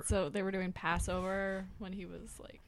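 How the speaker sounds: thin, tinny mic sound. Real, not acted. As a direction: sounds like a cheap tinny microphone. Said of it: "you sound really tinny".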